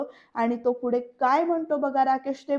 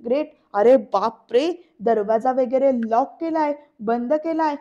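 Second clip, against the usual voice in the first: lazy mocking; 5 dB louder than usual. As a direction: sneer at him loudly, unbothered. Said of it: "लोळूनच बोलतोय". (लोळत उपहासाने मोठ्याने बोलणं)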